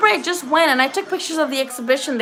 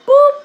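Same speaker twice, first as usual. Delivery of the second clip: mimed jab sound; 13 semitones higher, 8 dB louder than usual. Retold or imitated. Imitating a jab in the fight.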